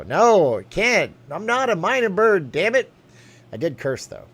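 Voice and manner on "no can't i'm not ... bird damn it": much higher, louder squawk; squawky bird voice. Acted. Streamer refusing a voice request, high squawking bird. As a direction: screech it like an angry parrot.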